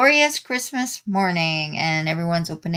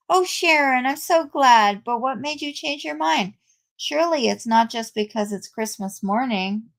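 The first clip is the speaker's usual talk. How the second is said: higher-pitched, delighted reaction; glad surprise; 4 semitones higher than usual. Acted. Diana hears Sharon will seek a congregation, delighted. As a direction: greet a friend's good news with delight. Acted delight at friend's news.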